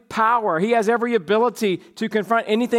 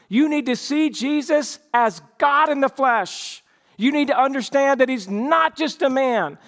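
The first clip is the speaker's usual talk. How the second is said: rising earnest exhortation, a little higher; preaching; 3 semitones higher than usual. Acted. Preacher urging his church, earnest and building. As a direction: urge the congregation on.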